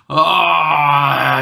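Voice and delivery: long drawn-out mock "ahh" of relish; gloating open-throated moan; vengeful gloating cry. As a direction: imitate a villain savouring revenge. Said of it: "like they were serving revenge".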